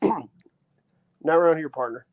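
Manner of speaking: put-on slow drawled American cowboy accent; a mock American cowboy warning a stranger off. Englishman mimicking an American cowboy, slow and threatening. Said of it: "apologies for my terrible accent".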